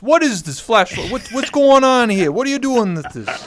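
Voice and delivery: mock baffled dad. Co-host keeps playing the baffled dad.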